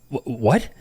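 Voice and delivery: halting, stammered what, rising at the end; stunned question. Retold or imitated. Patient hearing the doctor would remove it, stunned. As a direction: trip on the word in mild mock shock. Retold shock at doctor's advice.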